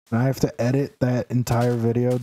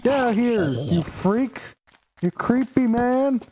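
shrill teasing shout up high; high mock yelling; 10 semitones higher than usual. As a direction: pitch up and heckle. Yelling at villager.

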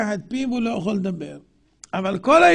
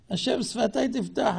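mock pious prayer; 5 dB quieter than usual. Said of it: "תראה, אלה מבקשים רשות".

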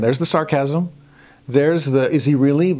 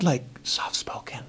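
mock whisper; 9 dB quieter than usual. Mocking a quiet god.

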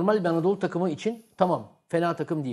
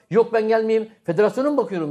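louder, higher scoffing question as the coach; imitating a coach scoffing at staying, louder; mock incredulous coach; 5 semitones higher, 6 dB louder than usual. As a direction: act out the coach brushing the offer aside, half-joking. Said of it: "diyecek abi".

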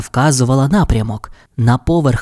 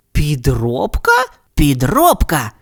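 puzzled; 2 semitones higher, slower than usual. Acted. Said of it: "перепитав Сільвестр".

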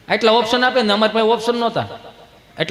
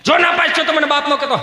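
high, forceful mock warning; father's warning; 7 semitones higher than usual. Father warns son about exam result, raised stern call. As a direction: call it out so that it echoes. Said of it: "પડઘા મળ્યા પડવા".

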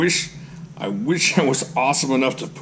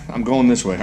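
usual speaking voice

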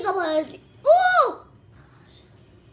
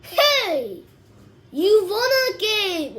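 slow drawled taunt; 3 semitones higher, 4 dB louder, much slower than usual. Pretend. Drawled English challenge in game.

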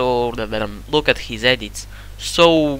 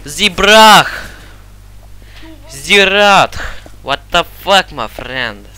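loud, higher, hyped callouts; excited shouting; 4 semitones higher, 5 dB louder than usual. Real, not acted. Gamer yelling callouts to teammate mid-round, excited shouting. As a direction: shout the callouts in the heat of the fight.

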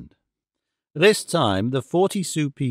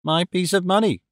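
put-on child crying out; 4 semitones higher than usual. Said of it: "cried the child".

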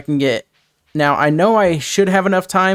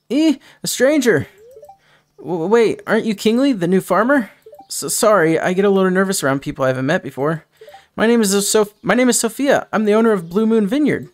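put-on shy nervous girl voice; 4 semitones higher than usual. Shy Sophia meets new farmer.

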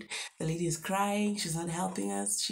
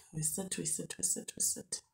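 fading repetition; 8 dB quieter than usual. Real, not acted. Waiting endlessly.

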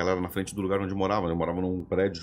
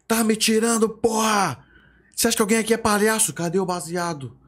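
furious cop yelling; 11 semitones higher than usual. Retold or imitated. Police chief screaming at the teenager in his face, furious shout. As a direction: bark at the kids like an enraged cop.

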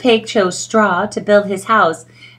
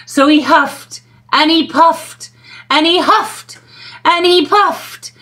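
rising build; 6 semitones higher than usual. A narrator's reading. Building effort.

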